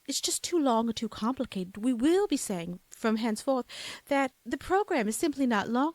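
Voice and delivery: mock-formal lilting British proclamation; affected hybrid British-Southern voice; British-Southern accent. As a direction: announce it in a put-on loopy British accent. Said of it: "We'll talk just like this".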